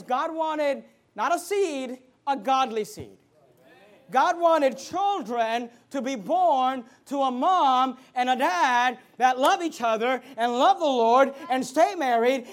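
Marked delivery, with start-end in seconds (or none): 4.1-12.5 loud punches on key words; firm pulpit delivery; emphatic preaching. Real, not acted. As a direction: preach it in slow, weighted phrases.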